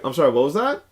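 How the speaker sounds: professional voice. Retold or imitated. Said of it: "in my quote-unquote professional voice".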